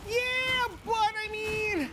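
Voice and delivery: sudden high-pitched yell; high shout. Real, not acted. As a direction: burst out loud, slowing down. Sudden shout during game.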